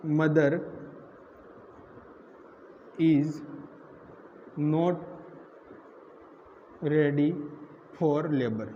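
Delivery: word by word, long pauses between; slow dictation. Real, not acted. Teacher writing out notes for students, slow dictation.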